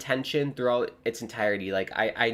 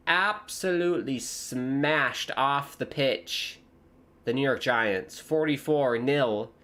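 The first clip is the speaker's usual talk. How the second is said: British pundit; 2 semitones higher, much slower than usual. Pretend. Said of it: "I sound like a British person talking about football".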